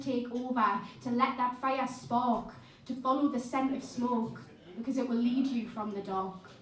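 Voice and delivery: steady, deliberate poetry reading; spoken word poem. Acted. Poet reciting a hopeful poem to the crowd, deliberate. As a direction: let each image land like a poem.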